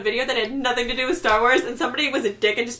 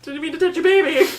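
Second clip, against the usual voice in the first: giggly, higher, louder; laughing apology; 6 semitones higher, 5 dB louder than usual. Retold or imitated. Apologizing to the mother while laughing. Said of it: "I was like".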